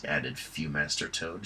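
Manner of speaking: usual speaking voice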